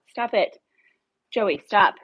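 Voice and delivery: firmly scolding a small dog. Retold or imitated. Scolding the dog at her leg.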